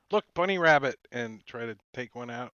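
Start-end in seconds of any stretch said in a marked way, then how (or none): 0.1-1.0 mock distraction. Distracting foe to steal shard.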